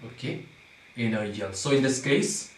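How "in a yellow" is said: "in a yellow" as one lower, softer group; group "in a yellow" together as a foot; divided into feet. Shown as a demonstration. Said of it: "We have to divide first into".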